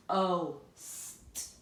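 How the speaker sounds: "P-o-st" sounded out with a long o; long o tapped. Shown as a demonstration. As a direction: tap it out slowly with long "o". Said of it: "making it long".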